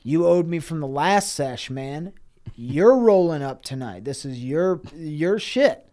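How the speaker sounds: loud, pushy buddy voice; insistent Grimace. Retold or imitated. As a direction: lean on him, he owes you. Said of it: "He said".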